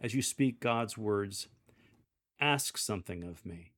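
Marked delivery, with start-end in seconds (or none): 2.4-3.7 lower, firm and kind; firm warm authority. Shown as a demonstration. Lector voicing God to congregation, firm warm authority. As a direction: speak God's words with gentle command. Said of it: "use a firm tone with warm authority".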